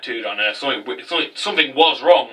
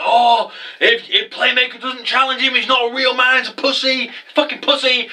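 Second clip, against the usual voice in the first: high, mocking announcer taunt, pitched way up; 10 semitones higher than usual. The announcer taunting Playmaker on the big screen, high mocking jeer. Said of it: "the announcer's like".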